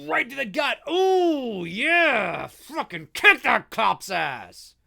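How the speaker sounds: high, drawn-out hooting, relishing the hit; whooping horror-fan commentary; gleeful cheering. Real, not acted. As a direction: cheer on the attack, slowly savoring it. Cheering on the attack on screen.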